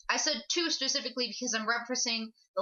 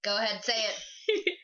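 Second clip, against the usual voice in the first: slow teasing through laughter; laughing; slower than usual. Real, not acted. Urging a friend to say it while laughing. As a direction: egg him on while laughing. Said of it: "teasing, laughing".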